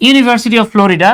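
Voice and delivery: College of Arts and Science stretched out very slowly; slow demo. Shown as a demonstration. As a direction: read the example slowly for students. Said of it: "যেমন".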